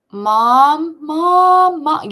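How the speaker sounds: put-on loud, high, drawn-out child's holler; wailing kid yell from across the yard; calling for Mom. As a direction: call out urgently for your mother. Retold child calling for mother.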